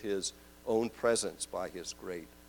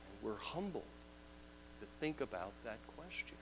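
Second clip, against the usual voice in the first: hushed; 14 dB quieter, faster than usual. Acted. Humbled reflection.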